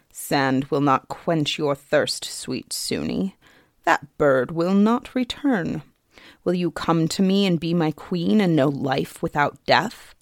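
put-on fairy king coldly taunting a starving girl; menacing fairy king. Fairy king tempts again.

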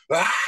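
roaring lion-like yell; mock lion scream. On mute after the call, lion roar. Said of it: "I scream like a lion".

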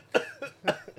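choking cough; coughing on iced tea; coughing fit. Real, not acted. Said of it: "you heard all that coughing".

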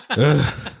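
put-on groaning sigh; groaned ugh for show; long sigh. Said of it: "long sigh".

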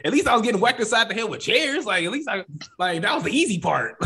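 high voice, laughing through the words; retelling a wrestler's joke about chairs while laughing; laughing through quote. Real, not acted. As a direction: let the laugh bleed into every word.

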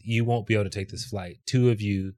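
low, soft retelling of an unruffled official; calm. Retold or imitated. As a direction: explain the rule quietly and evenly, imitating the agent. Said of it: "he said it so calmly".

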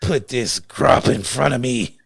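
slow, drawn-out mock outrage at the gruel; indignant how dare you. Friend retelling refusing a restaurant's grits, slow outrage. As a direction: look down your nose at the bowl, slowly. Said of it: "I was like".

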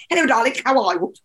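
lightly imitating a friend's put-on accent; a hint of a put-on accent. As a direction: mimic a friend's accented voice-message greeting. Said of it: "she's incredible at accents".

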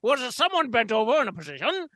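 lightly voiced pompous gent; a hint of a stuffy gentleman; pompous storyteller. Holds a pompous character voice.

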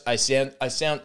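"sound" with a South African vowel, not quite landing; trying out the vowel in "sound"; attempted South African vowel. Shown as a demonstration. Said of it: "I do keep going to Scott".

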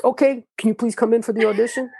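high-pitched mock casting director; imitated pleading. Casting director asking him again to audition, pleading. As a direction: raise the voice into an imitated plea.

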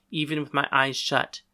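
plain reading voice

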